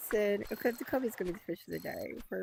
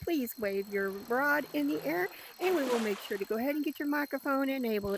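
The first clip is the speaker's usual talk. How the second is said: airline stewardess; 4 semitones higher than usual. Acted. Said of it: "I'm gonna sound like an airline stewardess".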